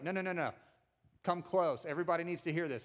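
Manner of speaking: mildly insistent, getting in their face; a touch of urgent command; urgent coach-like huddle call. Acted. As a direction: gather them in like a coach. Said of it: "like, a coach helmet to helmet".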